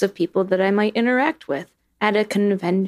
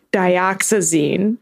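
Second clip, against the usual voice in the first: slow careful saying; 3 semitones lower, much slower than usual. Shown as a demonstration. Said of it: "this is how I think it's spelled".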